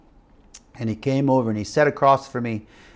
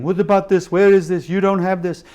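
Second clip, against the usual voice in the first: retold scolding; 5 semitones higher than usual. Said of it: "they would yell at me and scold me".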